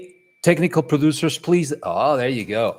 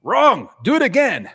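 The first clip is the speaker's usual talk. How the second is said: high, loud mock command; bossy to the AI; 9 semitones higher, 6 dB louder than usual. Host bossing the AI around, mock loud command. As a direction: bark it at the machine. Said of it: "It's just like".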